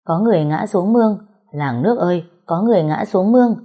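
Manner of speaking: loud alarmed shouts to the neighbours; calling for help. Acted. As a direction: shout across the village for help. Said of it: "vội hò nhau quay lại kêu lên".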